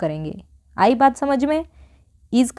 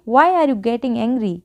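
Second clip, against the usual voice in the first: very slow, word by word; slow model sentence; much slower than usual. Shown as a demonstration. Teacher modelling an English sentence for Hindi learners, very slow. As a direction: say it slowly so learners can follow. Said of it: "क्या बोलेंगे".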